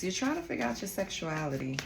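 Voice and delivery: normal talking voice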